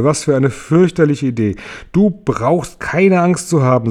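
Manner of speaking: höher, langsam beruhigend; freundlich. Acted. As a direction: sanft beschwichtigend wie zu einem Kind. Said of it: "sagte der Marienkäfer freundlich". (Marienkäfer beruhigt James, freundlich und langsam)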